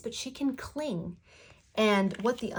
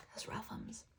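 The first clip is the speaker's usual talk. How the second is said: fainter whisper; 16 dB quieter than usual. Real, not acted. Repeated, fading further.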